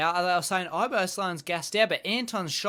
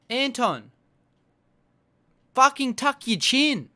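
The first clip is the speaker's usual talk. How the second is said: higher, louder barked order; angry fan shouting advice at the screen; frustrated shout; 6 semitones higher, 5 dB louder than usual. Acted. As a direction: yell it like a cornerman. Yelling advice at fighter.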